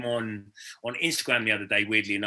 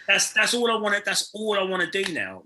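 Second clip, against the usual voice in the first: laughing; 7 semitones higher than usual. Real, not acted. Laughing about partying abroad.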